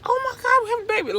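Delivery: high, loud joyful announcement; over the top excited. Retold or imitated. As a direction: cry out the happy news. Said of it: "over the top excited".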